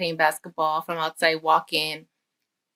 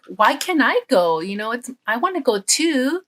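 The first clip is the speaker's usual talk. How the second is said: put-on lightly whiny kid, pitched higher; upset boy; 4 semitones higher, 3 dB louder than usual. Boy left out of basketball camp, mild upset whine. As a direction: protest like a left-out little boy, mildly upset. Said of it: "he was very upset".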